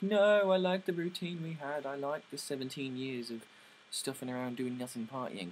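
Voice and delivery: starts high and loud, then settles; clinging to the party life, bursting out; stubborn refusal. Retold or imitated. Olive refuses Rue's proposal, high and loud at first. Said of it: "but she's like".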